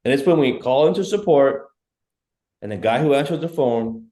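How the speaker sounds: ordinary delivery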